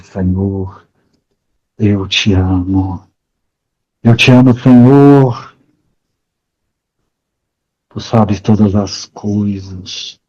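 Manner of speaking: a hint of Peter in tears; tearful. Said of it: "entre lágrimas, responde". (Pedro respondendo entre lágrimas, suave e lento)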